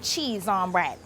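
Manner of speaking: Bajan lilt on cheese on bread; Bajan saying. Shown as a demonstration. Teaching the guest a Bajan saying, in Bajan accent. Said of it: "I'm gonna teach you five things that we say in the Caribbean".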